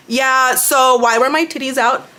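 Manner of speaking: slow, dopey put-on voice; mock clueless friend. Vlogger imitating her friend playing dumb. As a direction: drag it out as if truly clueless.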